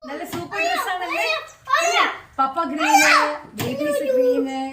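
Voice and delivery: high cooing about the outfits. Real, not acted. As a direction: gush over the babies' clothes. Admiring kids' outfits in baby talk.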